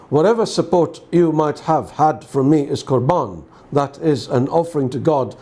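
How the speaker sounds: measured, solemn Gospel reading; formal liturgical reading; scripture reading. Acted. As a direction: read the Gospel aloud to a congregation, evenly. Reads the Gospel aloud.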